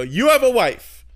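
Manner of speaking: slow, high, loud incredulous question; shocked disbelief. Retold or imitated. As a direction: gasp it out in disbelief. Shocked at therapist's wife.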